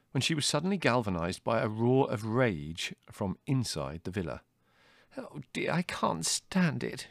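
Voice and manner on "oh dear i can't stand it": high, slow, weary moan. A narrator's reading. Mother reacting to a roar from inside, moaning. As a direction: moan it out, drawn out and pitched up. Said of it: "she moaned".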